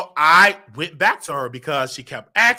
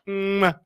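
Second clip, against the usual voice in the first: imitated kiss noise; kiss smack. Showing his first clumsy kiss, imitated kiss noise. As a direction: make a drawn-out "mwah". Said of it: "this is how you kiss".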